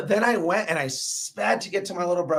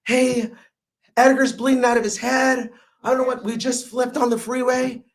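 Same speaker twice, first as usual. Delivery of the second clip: panicked friend; 5 semitones higher, 3 dB louder than usual. Retold or imitated. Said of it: "he's crying, screaming".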